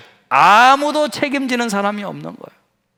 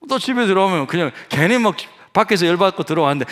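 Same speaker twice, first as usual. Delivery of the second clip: ordinary talk, nothing marked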